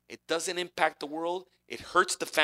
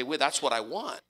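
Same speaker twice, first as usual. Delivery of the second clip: higher and louder, pleading eagerness; eager seeker; 4 semitones higher, 4 dB louder than usual. Retold or imitated. Preacher voices a seeker drawn to Joshua's joy, eager. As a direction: beg to know the secret. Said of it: "gonna look at this Joshua's life and say".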